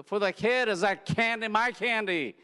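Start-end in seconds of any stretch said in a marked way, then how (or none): 1.1-2.4 put-on high, loud kid whimpering over candy; little kid crying for lost candy; whining child.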